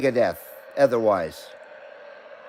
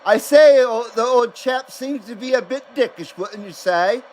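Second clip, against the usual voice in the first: mock British accent; 2 semitones higher than usual. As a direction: play a snooty old Englishman in a British accent. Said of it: "It sounds British".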